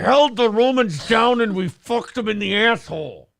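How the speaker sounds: high, loud barbarian bellow; war cry boast. Pretend. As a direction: roar it like a proud conqueror.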